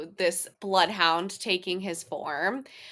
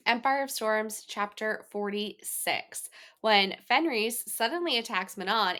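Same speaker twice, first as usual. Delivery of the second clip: reading a chapter recap aloud; steady podcast recap narration; summary read. Acted.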